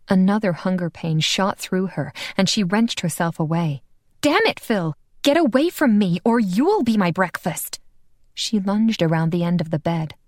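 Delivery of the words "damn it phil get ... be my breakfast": high, heated warning; raised, frantic threat; angry warning. Acted. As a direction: drive him back before she bites. Warning Phil away in hunger.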